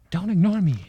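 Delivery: shouting, furious at being ignored; angry shout. Acted. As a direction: yell to make him answer. Stranger ignores her.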